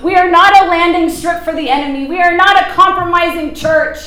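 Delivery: "not" hit hard in both lines; firm emphatic "not"; stress on not. Real, not acted. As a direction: press down on "not" each time. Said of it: "stress on not".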